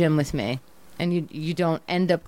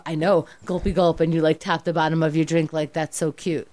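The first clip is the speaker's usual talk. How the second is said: mocking smug boyfriend. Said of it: "You go".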